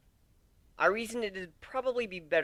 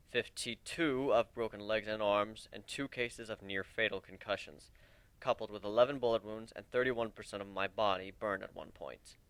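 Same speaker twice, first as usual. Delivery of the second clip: a hint of a grim wolf, lower, listing scars coldly; creepy wolf; 6 semitones lower, 3 dB quieter than usual. Wolf answers with creepy grin.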